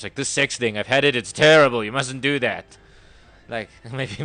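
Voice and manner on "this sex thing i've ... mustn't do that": a loud, hammed-up rabbi scolding. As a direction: play a rabbi warning, half joking, partly shouted. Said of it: "if you closed your eyes, you saw a rabbi".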